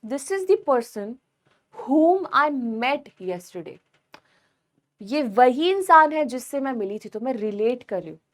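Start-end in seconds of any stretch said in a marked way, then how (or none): 0.0-3.8 slow dictation. Shown as a demonstration. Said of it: "जैसे कि".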